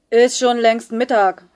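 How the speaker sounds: loud, slow cheeky yell from the back row. Acted. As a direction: heckle the new teacher loudly. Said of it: "brüllte ein schwarzhaariger Junge".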